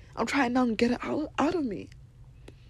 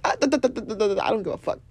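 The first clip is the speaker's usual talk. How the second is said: dismissive da da da; faster than usual. Retold or imitated. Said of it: "I said".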